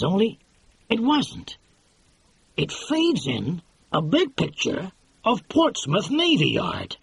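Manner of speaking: lightly voiced excitable producer; brash film producer. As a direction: sell it like a fast-talking movie boss. Producer retelling the rushes.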